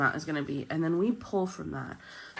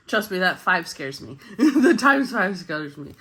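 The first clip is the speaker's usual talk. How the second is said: laughing; 6 dB louder than usual. Real, not acted. Laughing about the scary multiplier.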